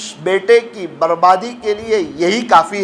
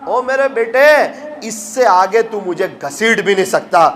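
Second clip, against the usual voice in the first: pleading, pitched higher, as if through tears; a preacher voicing the old father's tearful cry; retold weeping plea; 5 semitones higher than usual. Old father pleads to his son, tearfully mock crying. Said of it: "رونے لگا اور کہنے لگا".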